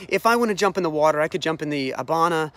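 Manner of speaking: mildly indignant retold protest; hot-headed. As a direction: act out a touch of hot-headed pride. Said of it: "he's hot-headed".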